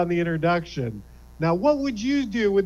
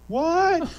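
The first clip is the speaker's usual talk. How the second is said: Bessie Bones; 11 semitones higher than usual. Acted. Bessie Bones yelling from the back of the line, higher and irate. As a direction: play an irate customer shouting from the back of the line. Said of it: "aforementioned taser".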